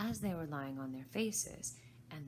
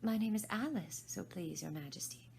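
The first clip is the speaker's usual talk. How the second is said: very polite; 3 semitones higher than usual. Acted. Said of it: "Alice said very politely".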